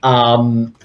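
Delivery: loud, emphatic mock rant. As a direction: insist with no room for argument.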